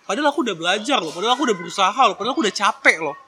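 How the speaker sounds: fast self-defending protest; defensive. Retold or imitated. Child defending self to scolding parents, quick protest. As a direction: rattle off the excuses defensively. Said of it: "ngebela diri".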